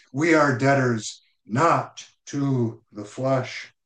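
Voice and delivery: slow "We are debtors", then "not" set apart by pauses; emphatic restatement. Shown as a demonstration. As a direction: spell out "not to the flesh" slowly, word by word. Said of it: "It is an emphatic reality and truth".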